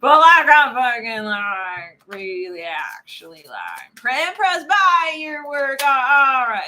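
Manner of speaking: hammed-up, very slow Texan accent. Tarot reader stuck in character, drawn-out Texan accent. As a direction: stretch every word in mock Texan, loud bursts. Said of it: "can't even get out of the accent now".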